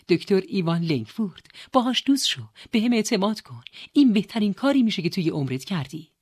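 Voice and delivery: emphatic, excited advice; eager urging. Acted. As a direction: push him on with conviction. Sister urging brother to befriend someone.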